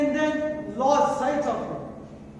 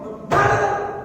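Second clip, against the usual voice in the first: high, loud cry of alarm; alarmed shout; 7 semitones higher, 7 dB louder than usual. Retold or imitated. Traveller reliving the chase, shouting for help. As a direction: yell it out to raise the alarm. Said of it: "not done from shouting".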